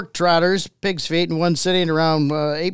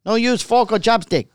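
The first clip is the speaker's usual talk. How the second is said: put-on Chinese accent. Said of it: "I know my Chinese accent".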